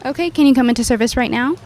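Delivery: reassuring service desk manner; customer service voice. Shown as a demonstration. Warranty admin reassuring a pretend angry customer, customer service voice. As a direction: put on a customer service voice, lifted on the opening words. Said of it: "I have a whole customer service voice".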